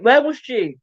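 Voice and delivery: chewing while asking; mouth full. Real, not acted. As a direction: talk through a mouthful of burger. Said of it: "I'm still with my mouth full".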